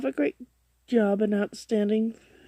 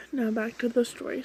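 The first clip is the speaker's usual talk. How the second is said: talking through hiccups; words broken by hiccups. Real, not acted. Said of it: "Sorry, I'm hiccuping so much".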